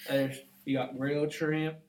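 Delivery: Bubba voice. Pretend. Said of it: "I do Bubba".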